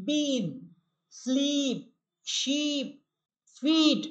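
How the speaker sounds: বিন স্লিপ শিপ ফিট with the middle vowel stretched long. Shown as a demonstration. Teacher shows the drawn-out long ee to students. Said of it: "একটু টান দিয়ে উচ্চারণ করলাম".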